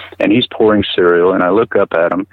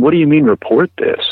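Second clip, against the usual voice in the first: incredulous retort; 8 semitones higher than usual. Retold or imitated. Indignant reply to doctor's threat.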